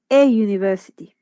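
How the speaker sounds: "a university" with a y-glide after the article; semivowel demonstration. Shown as a demonstration. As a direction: say "a university" as "eh yoo-niversity". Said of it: "es una semivocal llamada I E".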